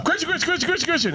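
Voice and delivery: high, carrying call of a name. Retold or imitated. Reporter yelling to a player, half laughing. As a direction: shout to catch his eye. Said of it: "I was going".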